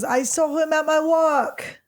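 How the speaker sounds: high, drawn-out mock British; British accent. Shown as a demonstration. Quoting the girl at work, slow mock British accent. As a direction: stretch it out in a put-on British voice. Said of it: "This is my British accent".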